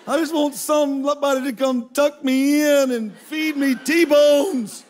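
laughing, wistful wish for comfort; milk the longing with a laugh; laughing plea. Acted. Preacher laughing as he pines for first class.

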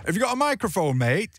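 drunk clubber imitated in northern English; northern English accent. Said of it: "I'm gonna do a northern accent".

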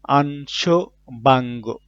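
very slow "আনশোবাঙ্গ"; slow, careful model of "আনশোবাঙ্গ"; Japanese word modelled. Shown as a demonstration. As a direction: stretch "আনশোবাঙ্গ" out slowly. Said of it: "vocabulary word modelled".

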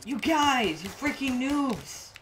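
yelling at noobs. Real, not acted. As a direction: yell at teammates in frustration. Yelling at teammates in game.

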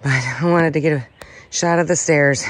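winded, breathing hard; heavy breathing. Real, not acted. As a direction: still panting from the stairs. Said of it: "sorry for the heavy breathing".

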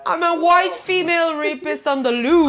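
movie trailer voice. Retold or imitated. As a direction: mimic the dramatic trailer line. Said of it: "faire blackface".

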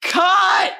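a director calling out to end the shot; yelled cut. Retold or imitated. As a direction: yell it across the set to stop the take. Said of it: "he yells".

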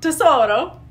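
"Tesoro" rising at the end; asked as a question. Shown as a demonstration. Repeating after the coach, asked as a question. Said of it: "you're asking a question".

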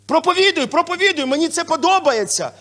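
high, loud churchgoer cheering; excited cheer. Retold or imitated. Pastor acting a fan of the sermon, loud and high. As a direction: shout encouragement to the pastor. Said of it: "є така в англійському".

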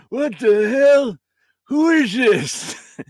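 put-on high, slow cranky old man; old grandpa voice. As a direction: bark like a grumpy grandpa. Grandpa ghost voice.

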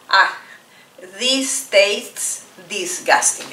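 slow low grossed-out line; tasting something awful; teacher acting disgust at food. Shown as a demonstration. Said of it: "Ah, disgusting".

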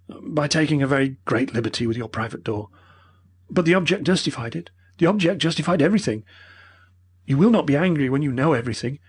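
put-on high, earnest old man explaining; pleading old professor. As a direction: beg to be understood.

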